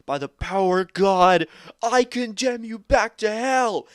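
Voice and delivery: high, booming condemnation; full-force re-enacted yell; yelling exorcist. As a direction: shout it like an exorcist banishing a demon, drawing out the end. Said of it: "and then he just yells".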